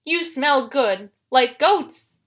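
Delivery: slow, loud monster voice; appreciative Cyclops. A narrator's reading. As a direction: savor it slowly and loudly as a monster. Cyclops voiced, sniffing Grover.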